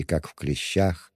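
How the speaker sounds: ordinary delivery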